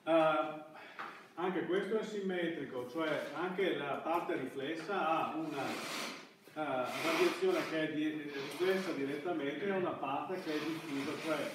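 usual speaking voice

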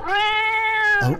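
high surprised "Oh"; startled squeak of surprise; surprised gasp. Acted. Surprise at the cat.

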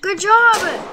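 cheerful praise. Real, not acted. Praising friend.

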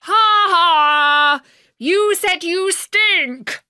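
loud, high teasing laugh; mocking laugh. A narrator's reading. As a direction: crow with glee at the king. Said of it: "called Bertie".

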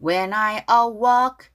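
awoke stressed as a-WOKE; stress on second syllable. Shown as a demonstration. Teacher modelling accent for learners, a-WOKE stressed. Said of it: "뒤에 액센트가 있어요".

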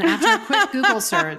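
high, loud laughing speech. Real, not acted. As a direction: laugh through the words. Laughing through line.

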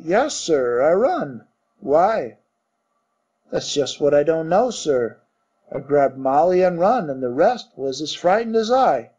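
lightly voiced Cockney servant; Cockney bellboy. Thomas the bellboy answering his master, light Cockney. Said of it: "Cockney dialect".

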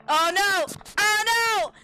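high, loud wail of regret; panicked dismay. Real, not acted. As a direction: cry out as you realise your slip. Swore by accident, panics.

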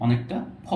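ফ said with lip friction; breathy f. Shown as a demonstration. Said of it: "not ফ, ফর মতো না".

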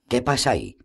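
calling out high over the rain, alarmed; shouted question. Acted. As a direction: yell it to the fighters outside. Jaskier shouting at the fight.

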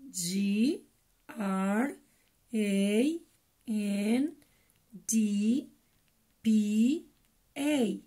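letters one by one, slowly; slow spelling. Shown as a demonstration. Teacher spells for kids, slow and clear. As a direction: spell S I S T E R out for children. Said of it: "practiquemos un poco cómo deletrear".

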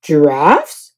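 surprised cry. A narrator's reading. Guest finding giraffes, crying out. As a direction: gasp out giraffes. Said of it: "cried Mister Snore".

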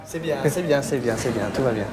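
calm him down gently; soothing hush. Acted. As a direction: therapist soothing an angry patient. Soothing the paranoid patient.

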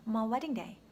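"My" shortened to a quick "ma"; reduced my. Shown as a demonstration. Teacher models connected speech for learners, reduced "My". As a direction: say "My" lightly, as an unclear "ma". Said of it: "이렇게 해주시면 되겠습니다".

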